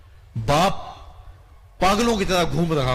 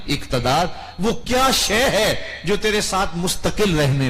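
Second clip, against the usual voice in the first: loud pleading preacher's call, slow on the verse; impassioned preaching; 3 dB louder, slower than usual. Acted. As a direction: plead with the runaway to come back. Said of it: "رحمت رب کی آواز دے رہی ہے". (پرجوش خطیبانہ پکار، بھاگے انسان کو بلاتے ہوئے)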